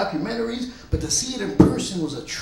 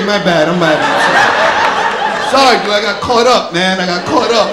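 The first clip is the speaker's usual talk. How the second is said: sheepish apology; 10 dB louder, slower than usual. Retold or imitated. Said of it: "I'm like, Okay".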